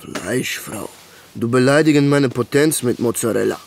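put-on joking caveman voice to his girlfriend; mock caveman. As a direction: play a dumb brute for a laugh. Continues caveman joke.

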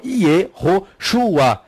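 "Yehoshua" broken slowly into ye, ho, shua; rejected pronunciation. Shown as a demonstration. Teacher rejecting a name form, "Yehoshua" in separated syllables. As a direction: pick "Yehoshua" apart syllable by syllable. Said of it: "o nome do Salvador não é Yehoshua".

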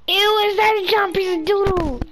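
high, loud grossed-out exclaiming; loud amused disgust. Real, not acted. Player finds a giant piece of doodle, amused disgust. Mock disgust at a game object.

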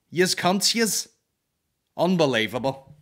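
loud, high disgusted jab; outraged insult. Acted. Comedian cursing the promoters, outraged. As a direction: spit it at them.

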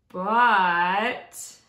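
lilting rhyming storybook reading; story narration. A narrator's reading. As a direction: read it aloud to children with expressive rhythm. Reads a rhyming picture book aloud.

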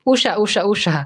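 "উষা" with the letters U-S-A fused into a word; run together. Shown as a demonstration. Teacher tests whether USA sounds right, letters run together. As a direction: repeat "উষা" as one word, no letter stops. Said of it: "এটা যদি আমি উচ্চারণটা করি একসাথে".

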